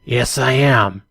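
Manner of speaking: mildly surprised confirmation. Acted. Intercom man recognised by stranger, mildly surprised. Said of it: "he says in a surprised tone".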